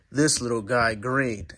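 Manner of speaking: blocked nose from a cold; stuffy nose. Real, not acted. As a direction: talk through a stuffy nose. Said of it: "my bad if I sound kinda stuffy".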